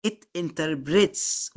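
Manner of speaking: slow reading. Shown as a demonstration. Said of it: "ودي مهمة بس نقراها".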